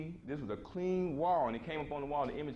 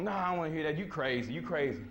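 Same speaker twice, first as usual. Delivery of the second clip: defiant wife; 3 semitones higher than usual. Retold or imitated. Wife refusing to hear husband's spaceship story, defiant. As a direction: push back like a defiant wife. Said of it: "She's being defiant".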